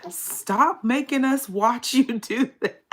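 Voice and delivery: high-pitched mock scolding, laughing through. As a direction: scold the dog in a squeaky voice. Scolding her dog in high voice.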